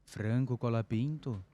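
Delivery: a hammy Italian mob boss; Italian accent. Retold or imitated. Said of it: "Meu sotaque italiano é horrível".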